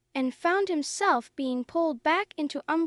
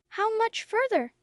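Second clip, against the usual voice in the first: shrill impatience; 6 semitones higher than usual. Acted. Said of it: "her voice shrill with impatience".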